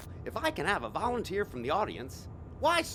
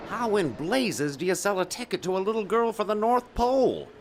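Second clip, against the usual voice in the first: louder, exasperated demand; furious father, raised voice; angry outburst; 7 dB louder than usual. Acted. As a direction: tear into him over the ticket. Father confronts ticket clerk.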